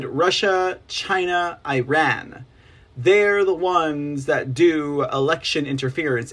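normal talking voice

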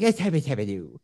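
put-on voice with slight lisp on every word. Showing how to do Adam Sandler: Adam Sandler impression with slight lisp. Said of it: "give yourself a slight lisp and be like".

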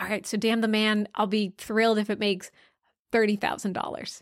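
ordinary talk

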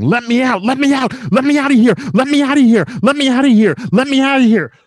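put-on very high-pitched, loud screaming, over and over. Retelling hearing a man scream near the checkout, imitating someone screaming. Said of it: "someone start screaming".

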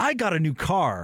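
very slow, drawn-out, gushing, enthusiastic excitement. Showing how the line should sound: demonstrating enthusiasm. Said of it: "it needs to be enthusiastic".

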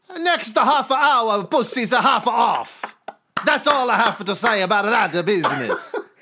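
put-on Italian accent. Told to do Al Swearengen but Italian, the speaker obliges: Al Swearengen with Italian accent. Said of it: "but with an Italian accent".

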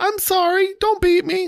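play-acted, very high, shrill, terrified shriek. Retelling a scene where a girl drops carrots: imitating a terrified shriek. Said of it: "Molly shrieks out".

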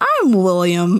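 put-on childlike voice. Repeating how he introduces himself, imitating William's childlike voice. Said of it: "Like a child?".

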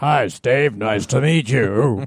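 very slow, deep, resonant voice. Recalling meeting a news anchor at a friend's house: Tom Brokaw impression. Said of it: "That's my Tom Brokaw impression".

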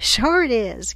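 very loud, delighted, happy exclamation. Kernley answers the gunslinger, crying out happily. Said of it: "Kernley cried happily".

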